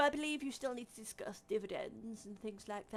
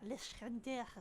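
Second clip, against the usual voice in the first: attempted French accent, barely done; failed French accent; 3 semitones higher than usual. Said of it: "I cannot do a French accent, even if I fucking tried".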